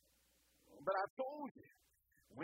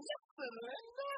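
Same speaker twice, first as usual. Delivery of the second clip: high, slow drawn-out whine; whiny little boy; 12 semitones higher, slower than usual. Retold or imitated. Little boy whining at his mom Linda in an ad. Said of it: "He was just going".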